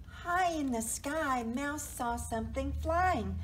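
lifted storybook reading with crisp sound words; animated picture-book narration; story narration. A narrator's reading. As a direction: read with wonder to young children.

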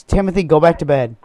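turning away from phone. Pretend. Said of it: "that was my son".

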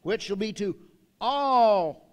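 loud, slow heavenly announcement; swelling proclamation of great joy; proclaiming angel. Acted. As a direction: ring it out across the whole room. Angel's message preached.

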